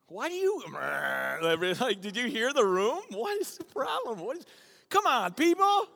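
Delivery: loud, high call to the crowd; rally the room, loud and high. Real, not acted. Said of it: "Say it like you're happy about it".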